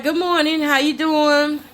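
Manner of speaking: sweet sing-song greeting. Retold or imitated. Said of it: "I talk like this in real life".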